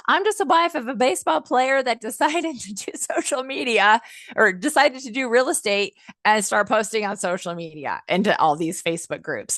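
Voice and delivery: lightly mimicked Southern accent. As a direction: do her Southern accent with a laugh. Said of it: "She's got this Southern accent".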